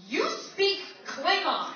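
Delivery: high, loud outburst; retold yell. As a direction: yell it as an exasperated comeback. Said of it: "I just yell out".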